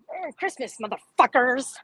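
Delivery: lightly voiced crude holiday greeting; Rick Krug. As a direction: imitate his cheerfully foul-mouthed greeting. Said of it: "That's how he talks".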